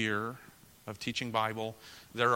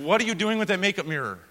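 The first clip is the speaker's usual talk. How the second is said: retold angry question; 6 semitones higher, 5 dB louder than usual. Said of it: "now I'm getting angry".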